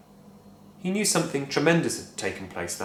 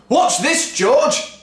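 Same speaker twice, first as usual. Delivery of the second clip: higher, louder call; gleeful shout; 9 dB louder, much slower than usual. A narrator's reading. Father shouting to George across the yard. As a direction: shout to get attention. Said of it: "Mister Cranky shouted".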